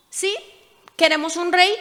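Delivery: a stubborn crowd insisting on a king; insistent demand. Acted. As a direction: demand it like a crowd that won't wait.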